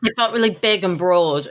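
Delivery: talking through a mouthful of toast; chewing toast while speaking; mouth full. Real, not acted. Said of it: "Sorry, I've got toast in my mouth".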